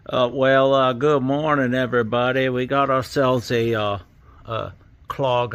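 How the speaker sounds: lightly voiced southern HVAC vlogger; Ted Cook impression. HVAC vlogger parody explaining a drain clog, lightly voiced. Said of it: "especially the Ted Cook one was really bad".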